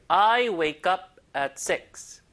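very slow, each word leaned on; stressed demo. Shown as a demonstration. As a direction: lean hard on each word, slowly. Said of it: "강세 들어보세요".

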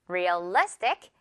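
Realistic said slowly, weight on "li"; stress on the second syllable. Shown as a demonstration. Teacher repeating the word for the class, Realistic stressed on "li". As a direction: lean hard on the "li" in Realistic. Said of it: "리 부분을 강하게 발음해주면".

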